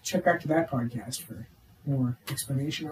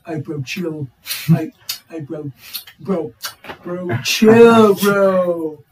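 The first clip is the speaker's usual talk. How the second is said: Nacho impression; much slower than usual. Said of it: "my Nacho impersonation".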